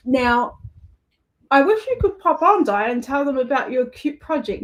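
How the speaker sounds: talking through a mouthful; chocolate in the mouth; mouth full. Real, not acted. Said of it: "Now I'm talking with my mouth full".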